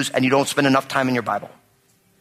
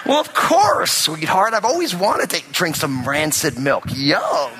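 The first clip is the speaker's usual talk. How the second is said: sarcastic sweetness; slower than usual. Retold or imitated. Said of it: "She's like".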